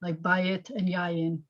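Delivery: "buy it" and "yayin" slowly, stress on the first syllable; slow teaching read, stress on the front syllable. Shown as a demonstration. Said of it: "the accent's on the first syllable".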